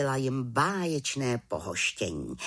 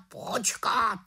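raven interrupting; 10 semitones higher than usual. A narrator's reading. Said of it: "skočil jí do řeči Havran".

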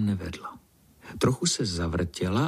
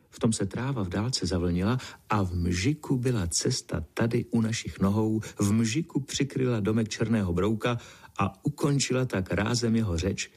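plain reading voice

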